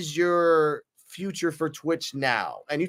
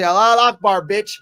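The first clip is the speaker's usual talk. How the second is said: loud, higher taunting yell charging in; mock battle cry; 4 semitones higher, 7 dB louder than usual. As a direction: shout it as you rush him. Yelling as he charges rival.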